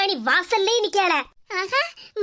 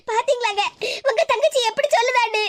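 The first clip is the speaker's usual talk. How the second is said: acted sobbing complaint to husband; tearful appeal. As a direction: complain to him through tears. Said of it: "அழாம இரு".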